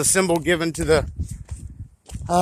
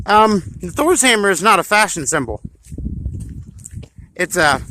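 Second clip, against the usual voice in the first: chewing gum; 2 semitones higher than usual. Real, not acted. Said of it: "sorry, I'm chewing gum".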